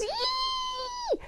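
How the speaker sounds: very high, sustained dog squeal; thin, piercing squeal held long; imitated happy squeal. Imitating Pookie the dog happy and excited, high-pitched squeal. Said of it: "She does this high-pitched squeal".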